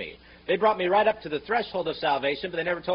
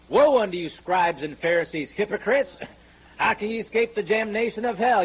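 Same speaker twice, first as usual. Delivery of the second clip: thundering rebuke; 3 semitones higher, 5 dB louder than usual. Retold or imitated. Preacher thunders Jesus' rebuke.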